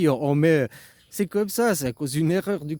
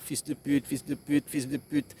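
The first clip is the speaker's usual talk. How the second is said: softer hidden insult; muttered insult under the breath; 6 dB quieter than usual. Shown as a demonstration. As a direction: curse quietly behind a smile. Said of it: "en même temps que je pensais".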